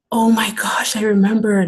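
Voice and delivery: loud, voiceless whisper of amazement; stunned whisper. Retold or imitated. Answering the man who found her, a stunned whisper. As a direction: breathe out the realization. Retold shock of recognition.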